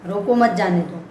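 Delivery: "रोको मत जाने दो" all joined as one phrase; run together without pause. Shown as a demonstration. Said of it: "sentence को एक साथ बोल जाना".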